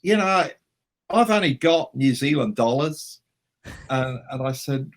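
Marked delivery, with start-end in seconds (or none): 0.0-3.2 high, raised put-on voice. Mate confessing his money problem, high put-on voice. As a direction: innocent mate's voice, pitched way up. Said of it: "And he said".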